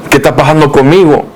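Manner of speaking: pleading prayer. Retold or imitated. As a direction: cry out to God, lost and desperate.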